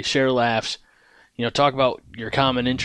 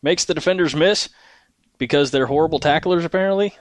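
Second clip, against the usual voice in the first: play-by-play announcer; 3 semitones higher than usual. Pretend. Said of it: "I was the radio announcer".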